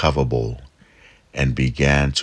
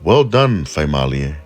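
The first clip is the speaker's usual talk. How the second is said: grudging praise; 5 dB louder than usual. Acted. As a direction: praise her with surprise. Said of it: "Hikuleo said".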